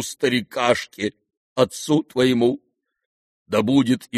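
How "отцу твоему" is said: plain reading voice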